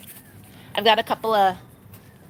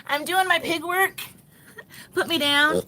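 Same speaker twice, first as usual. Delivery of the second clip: raised little pig voice; pig's protest; 6 semitones higher, 4 dB quieter than usual. Acted. Owner speaks for her digging pig, playful high complaint. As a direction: playfully voice a busy pig, pitched up. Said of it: "She's like".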